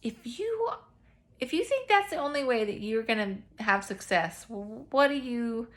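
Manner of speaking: high, loud playful challenge; God's teasing challenge. Retold or imitated. God playfully challenging her, mock high and loud. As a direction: tease her like an amused parent. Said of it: "And he's like".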